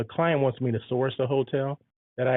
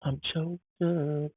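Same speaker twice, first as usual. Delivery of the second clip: choked up; 3 semitones higher than usual. Real, not acted. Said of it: "I'm so choked up right now".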